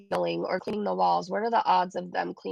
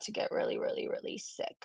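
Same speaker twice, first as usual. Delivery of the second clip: hushed; 8 dB quieter than usual. Real, not acted. Ominous prediction.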